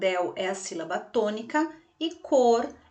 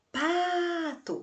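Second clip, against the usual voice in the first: "pato" pitched high, PA held long; stretched PA; 7 semitones higher than usual. Shown as a demonstration. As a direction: draw out the PA of "pato" in a high calling tone. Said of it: "eu estiquei um pouquinho mais". ("pato" agudo, com o PA esticado)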